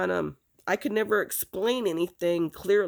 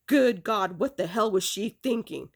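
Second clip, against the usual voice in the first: retold shocked outburst. Retelling dad's reaction to news of the attempt, appalled. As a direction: imitate an appalled father blurting out.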